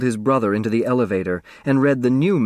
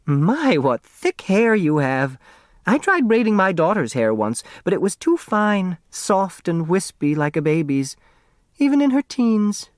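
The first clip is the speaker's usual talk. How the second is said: put-on raised, fond older woman's voice; elderly neighbor voice; 8 semitones higher than usual. A narrator's reading. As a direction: voice the chatty old neighbor, higher. Voices Flora Bomback.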